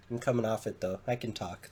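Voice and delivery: blocked nose from a cold; stuffy nose. Real, not acted. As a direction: talk through a stuffed-up nose. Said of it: "just a little stuffed".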